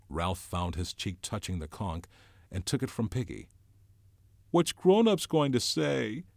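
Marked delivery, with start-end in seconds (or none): 4.5-6.2 crying out. Acted. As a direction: wail it out as a frightened boy. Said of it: "cried Piggy again".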